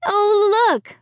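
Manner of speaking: a mother's lively call. A narrator's reading. Mother spotting friends at the door, brightly. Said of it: "her mother said".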